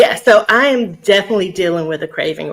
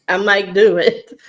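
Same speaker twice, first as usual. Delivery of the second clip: laughing; 4 dB louder than usual. Real, not acted. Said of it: "laughs while admitting".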